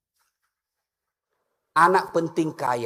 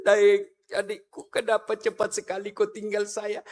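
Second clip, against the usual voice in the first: mock weeping husband; 4 dB quieter than usual. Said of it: "sambil menangis".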